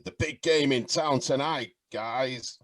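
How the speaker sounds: a hint of a game-night commentator's patter; Mike Shaft. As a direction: imitate a basketball commentator announcing tonight's game. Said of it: "That sounds like him too".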